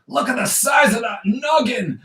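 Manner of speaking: high, shouted mock villain voice; hammed-up villain boom. Shown as a demonstration. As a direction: shout it out like a cartoon baddie.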